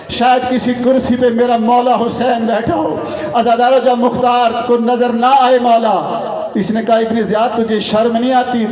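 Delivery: declamatory religious storytelling to mourners; fervent Shia majlis orator; impassioned majlis preaching. Real, not acted. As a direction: preach the tragedy with ringing, emphatic phrases. Preaches a majlis narrative at full force.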